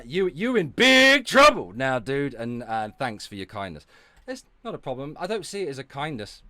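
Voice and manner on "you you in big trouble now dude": high, loud teasing threat; sing-song warning to tease her; playful mock threat at Fedora.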